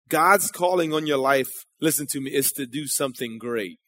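soft, low aside to the crowd; quiet. Real, not acted. Preacher to his congregation, soft and low. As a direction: say it low, almost to yourself. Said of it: "a few people got that".

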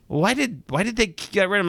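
high-pitched puzzled question; mildly acted bafflement. Host imitating a viewer puzzled by an old movie, bafflement. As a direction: lightly play a viewer who can't make sense of it.

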